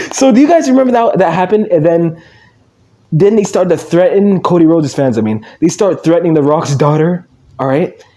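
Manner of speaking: ordinary delivery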